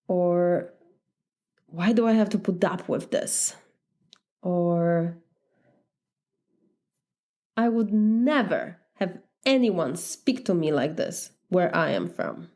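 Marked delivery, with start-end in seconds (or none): 1.7-3.5 mildly exasperated inner voice; frustrated. Acted. Mocked immigrant thinking to herself, mild frustration. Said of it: "We might also feel deeply frustrated". 7.5-12.5 understated indignant inner voice, dropping at the end; frustrated. Acted. Immigrant silently protesting how she is spoken to, mild frustration. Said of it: "We might also feel deeply frustrated".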